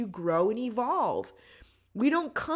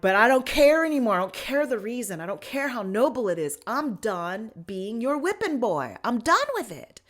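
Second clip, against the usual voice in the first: retold yelling; 7 dB louder than usual. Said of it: "the way you're yelling at me".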